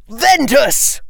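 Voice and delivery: high, slow spell cry; spell shout. Acted. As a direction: fling the spell out.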